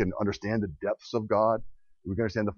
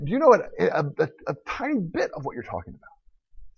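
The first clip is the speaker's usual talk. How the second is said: overwhelm him with God's power; God's booming voice; 9 semitones higher, 5 dB louder than usual. Acted. Preacher voices God questioning Job.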